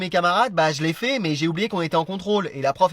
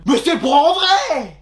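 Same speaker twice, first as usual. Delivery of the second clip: drawn-out, higher whiny protest; slow high insistence; 8 semitones higher, 3 dB louder, much slower than usual. Acted. Teacher insists to class the test counts, slow high whine. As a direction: stretch it out, pleading it's real.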